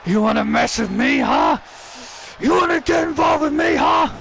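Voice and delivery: low, challenging wrestler taunt; taunting heel wrestler. Pretend. Randy taunting the fallen Chris, challenging. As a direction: get in his face and dare him.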